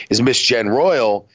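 hiccup-broken, slow. Real, not acted. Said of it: "I have the hiccups there for a sec".

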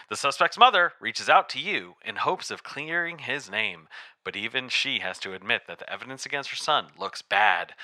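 dramatic movie-trailer announcer voice. Acted. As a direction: boom it out like a game announcer. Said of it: "announcer voice for it".

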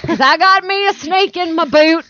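loud high cowboy geezer; old prospector. Pretend. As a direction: crow it like a desert prospector.

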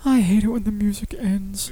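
grumbling whisper about the music. Real, not acted. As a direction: mutter it under your breath, annoyed. Annoyed aside to himself.

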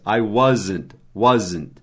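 "wasn't" bem articulado, was-znt; wasn't em duas sílabas. Shown as a demonstration. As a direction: pronuncie as duas sílabas de "wasn't" com clareza. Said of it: "é duas sílabas em inglês". ("wasn't" didático, was mais znt)

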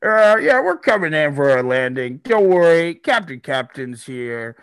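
high, loud captain over the intercom; an airline captain's announcement; pilot on intercom. Acted. Captain reassuring passengers over the intercom, high and loud. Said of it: "You hear over the intercom".

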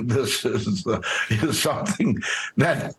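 laughing nervously through the words; uneasy chuckle while explaining. Real, not acted. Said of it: "can you stop laughing nervously".

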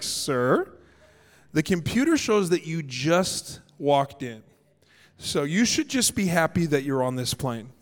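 low, slow, measured courtesy; super polite. Acted. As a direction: put them in their place very politely. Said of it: "she was super polite".

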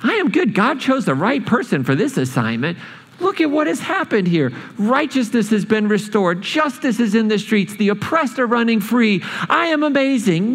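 mock self-satisfied, rising high on I am good; preening prophet, half-sung boast; smug Jonah. Preacher voicing Jonah gloating over Nineveh, mock smug. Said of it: "you would think Jonah would be like".

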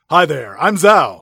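low, loud greeting in a mock Northern Virginia accent; a hint of Chesapeake Bay American accent; Zhao. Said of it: "in your accent".

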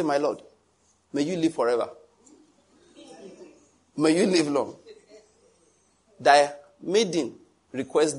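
a touch of courtly pleading; bow before the king, asking politely; wife petitioning her husband like a king, mild mock; lightly voiced humble subject. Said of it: "The king is on the throne".

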